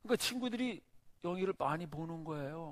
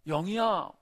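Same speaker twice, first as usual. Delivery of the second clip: loud, high call from behind; 5 semitones higher, 11 dB louder, slower than usual. Retold or imitated. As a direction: call the girl's name across the yard. Mother calls Younghee from behind. (뒤에서 엄마가 영희를 크게 부르며)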